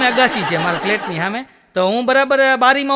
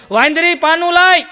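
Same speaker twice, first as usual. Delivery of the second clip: calling out; 5 semitones higher, 4 dB louder than usual. Retold or imitated. Calling wife from bathroom.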